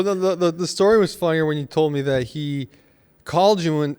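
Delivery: ordinary delivery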